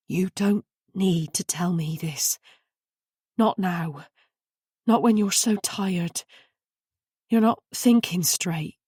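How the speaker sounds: calm her down tenderly; soothing. A narrator's reading. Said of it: "soothed Carenza".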